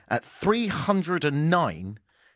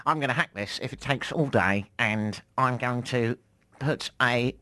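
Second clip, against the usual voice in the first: nerd voice. Acted. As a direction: play a smug computer nerd. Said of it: "my nerd voice".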